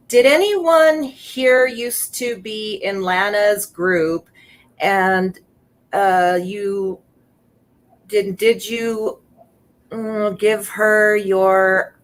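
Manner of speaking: Did anyone here used to be in Lana's group read slowly, stumbling over the words; slow halting read. Shown as a demonstration. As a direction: read the post slowly as you find it on screen. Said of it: "Okay, so it said".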